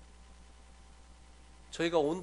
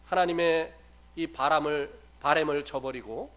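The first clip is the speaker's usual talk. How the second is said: usual speaking voice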